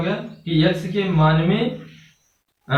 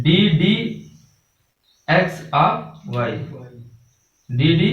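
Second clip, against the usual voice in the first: slow, spaced-out डी डी एक्स of वाई; correct reading, slowly; much slower than usual. Shown as a demonstration. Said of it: "ये शुद्ध पढ़ने का तरीका होता है".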